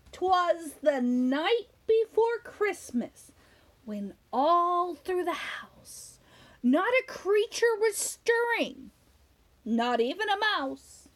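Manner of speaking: put-on slow, hushed poem-reading voice for children; story reading. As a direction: read the rhyme slowly, savouring each line. Reads the poem aloud.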